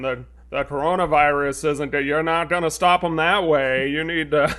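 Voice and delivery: a hint of a New England accent. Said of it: "speak with a heavy New England accent".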